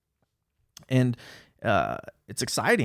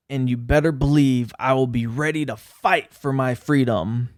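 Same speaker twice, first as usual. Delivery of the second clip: serious voice. Shown as a demonstration. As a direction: read it like a grave warning to everyone. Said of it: "in my serious voice".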